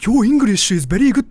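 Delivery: high, loud, over-impressed compliment; mock-amazed praise of his English; impressed local. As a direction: gush like an amazed stranger. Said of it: "And they usually go".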